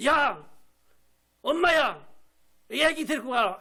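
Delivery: scolding shout. Acted. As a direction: shoo them off, annoyed. Disciples scolding noisy mothers.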